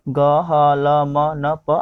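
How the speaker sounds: ग, ह, ल, म, न, प each as a consonant plus short vowel; letter sounds. Shown as a demonstration. Teacher sounding out consonants for learners, ग, ह, ल, म, न, प evenly voiced. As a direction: sound out ग, ह, ल, म, न, प evenly on one level pitch. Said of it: "उसका उच्चारण क्या होगा?".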